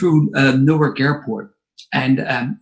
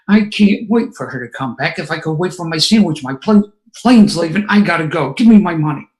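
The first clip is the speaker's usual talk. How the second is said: tense, forced words through clenched teeth; through gritted teeth; 3 semitones higher than usual. Retold or imitated. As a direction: hold the anger back behind your teeth. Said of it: "Through gritted teeth".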